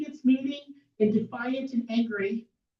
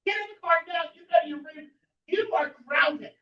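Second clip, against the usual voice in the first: higher barked orders, last line slowed; stern dad; 8 semitones higher than usual. Retold or imitated. Father ordering the pregnant girl into the car, stern. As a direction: lay down the law like an angry parent.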